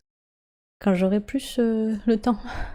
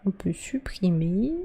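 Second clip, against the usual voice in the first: slow unvoiced whisper; 4 dB quieter, slower than usual. Real, not acted. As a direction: whisper it to yourself. Muttered aside. (chuchoté)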